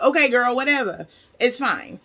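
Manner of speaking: mock-agreeable "whatever" attitude; retold brush-off. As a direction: brush her off with a sassy lilt.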